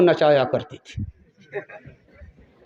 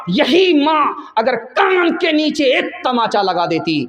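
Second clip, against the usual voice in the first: slow, tearful and raised; crying lament; 5 semitones higher, slower than usual. Acted. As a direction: let the voice break with regret. Son laments his mother.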